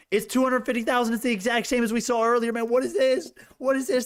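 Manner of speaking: high-pitched stunned excitement; real excited disbelief; incredulous excitement. Real, not acted. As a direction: squeak out disbelief at the numbers. Short share data excites.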